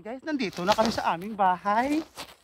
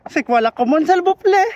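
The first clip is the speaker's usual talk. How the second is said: hammed-up French cashier, rising at the end; mock French order-taker; 5 semitones higher, 8 dB louder than usual. Joking as a French McDonald's cashier, mock French accent. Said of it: "Ganun mo kayo pag take order".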